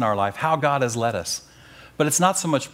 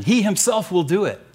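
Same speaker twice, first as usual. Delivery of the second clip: HE himself lifted high for emphasis; emphatic HE; 5 semitones higher than usual. Shown as a demonstration. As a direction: lean on "He himself" as the one acting. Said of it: "he is in the emphatic position".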